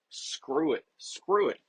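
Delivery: a parent caving happily, quick and excited; eager giving in. Retold or imitated. Dad to his daughter at bedtime, giving in eagerly.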